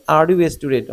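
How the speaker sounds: lighter lift through "Are you a student"; yes-no question intonation. Shown as a demonstration. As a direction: ask it with a modest rise on "student". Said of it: "আরো বাড়বে".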